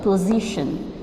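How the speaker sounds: slow, each word laid out for the class; teacher repeating the key phrase slowly; slow emphatic repeat. Shown as a demonstration. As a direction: drive the definition home slowly. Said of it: "demonstrates the position".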